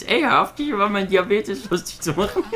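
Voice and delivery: high, squealing cartoon kid complaint; high-pitched mock protest; South Park impression. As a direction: whine it high like a South Park character, half laughing. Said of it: "So wie bei South Park".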